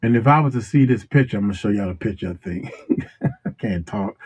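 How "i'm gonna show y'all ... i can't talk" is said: talking while chewing gum; words round a wad of gum. Real, not acted. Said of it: "can't talk and chew bubblegum".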